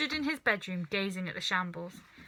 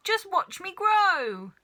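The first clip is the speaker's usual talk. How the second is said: high, loud, slow witchy crow; grandma gloating as she grows; crowing old hag; 10 semitones higher, 6 dB louder, slower than usual. A narrator's reading. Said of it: "she shouted".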